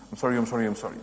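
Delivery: tossed-off sorry fading away; a careless sorry that trails off; insincere sorry. Retold or imitated. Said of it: "That's not sorry".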